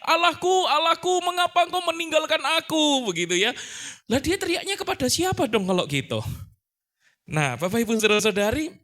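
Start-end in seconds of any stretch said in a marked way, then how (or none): 0.1-3.1 crying out. Retold or imitated. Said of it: "Lalu dia berteriak".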